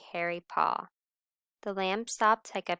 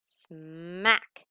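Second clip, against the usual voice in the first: kiss smack. Acted. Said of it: "gave him a great big kiss".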